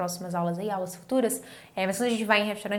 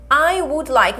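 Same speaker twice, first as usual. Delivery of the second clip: model phrase; 5 semitones higher, 7 dB louder, slower than usual. Shown as a demonstration.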